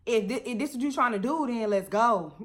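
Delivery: squaring up, fine, bring it; mock defiant challenge. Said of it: "I'm just like".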